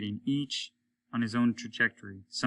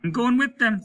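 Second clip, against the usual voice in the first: much higher, louder thrilled voice; excited Stone; 12 semitones higher, 9 dB louder than usual. A narrator's reading. Stone leaving with the meteors, high and loud excitement. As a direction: swept off into the stars, raised.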